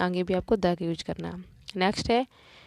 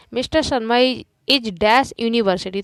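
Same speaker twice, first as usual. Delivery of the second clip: slow, loud reading of the blank; slow dictation; 5 dB louder, slower than usual. Shown as a demonstration. Teacher reading the exercise aloud to the class. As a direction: read it out slowly. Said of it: "teacher reads question slowly".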